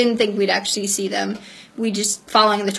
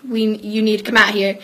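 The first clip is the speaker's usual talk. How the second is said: louder, imitating a dad calling; 5 dB louder than usual. Dad summons daughters from the bathroom, calling out. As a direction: raise your voice a little as dad. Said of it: "calls out to us".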